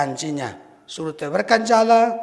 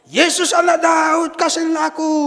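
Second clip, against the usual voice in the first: calling out; 9 semitones higher, 6 dB louder than usual. Acted. Blind man crying out to Jesus, loud plea. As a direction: cry out for mercy from the roadside. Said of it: "orang buta namanya Bartimeus teriak-teriak".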